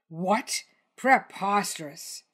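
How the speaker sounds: outraged dinosaur, lightly voiced. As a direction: sputter it out, offended. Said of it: "Tony took on an expression of outrage".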